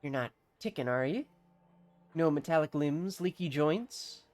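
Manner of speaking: put-on suspicious villager in a country accent; bad rustic accent. Villager checks a stranger for machinery, bad rustic accent. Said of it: "bear witness to my bad accent".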